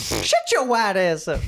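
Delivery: high-pitched mock Black dialect outburst; hammed-up Black accent imitation. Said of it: "and then she went black".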